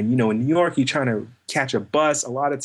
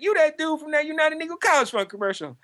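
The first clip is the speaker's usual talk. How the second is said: excited driver. Retold or imitated. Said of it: "He's like".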